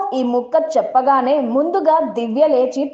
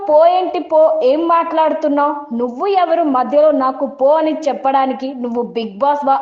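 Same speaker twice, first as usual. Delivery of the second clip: retold flare-up; 4 semitones higher than usual. Divya firing back at Tanuja, retold outburst. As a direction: snap back as if flaring up. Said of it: "Divya fire అయింది".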